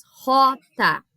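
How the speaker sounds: "rota" said as "hota", from the back of the mouth; Spanish J name, "rota" with an h-like start. Shown as a demonstration. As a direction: open "rota" on an aspirated R. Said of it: "lá atrás".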